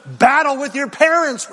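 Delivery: a demon frog pushes the fight, loud; loud demon frog urging. Acted. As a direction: egg them on like a demon.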